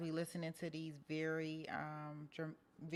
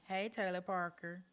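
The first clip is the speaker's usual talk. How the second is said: mock cop warning. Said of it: "law enforcement just goes out and say".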